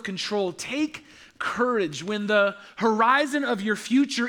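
rising preacher's refrain; steadily rising preaching cadence; building sermon refrain. Acted. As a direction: build each take courage toward a climax.

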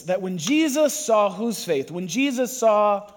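slow, stressed call waiting for the answer; call and response prompt. Shown as a demonstration. Preacher calling to the congregation, slow and emphatic. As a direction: draw out Jesus so they answer back. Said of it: "Say it again".

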